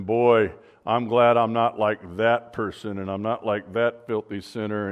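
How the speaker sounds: preen a little, looking down on the sinner; self-righteous legalist. Retold or imitated. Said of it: "very self-righteous in his attitudes".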